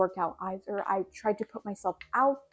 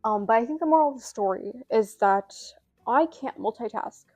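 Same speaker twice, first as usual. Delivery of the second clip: out of breath. Real, not acted. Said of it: "I'm so out of breath".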